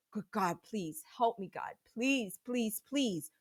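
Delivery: desperate prayer. Retold or imitated. Desperate silent prayer in panic.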